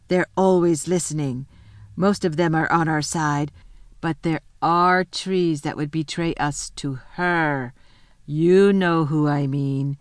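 slow, low, lightly voiced beaver; a lightly played talking beaver, slow and wary; lisping buck-toothed beaver.

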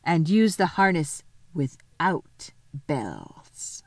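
slow hoarse whisper; a secret command whispered. A narrator's reading. Witch's secret order.

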